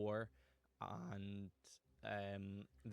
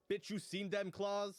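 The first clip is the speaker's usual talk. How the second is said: loud high slow brag; cocky bro voice; 11 semitones higher, 7 dB louder, slower than usual. Acted. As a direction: brag loudly about your claws. Lobster brags.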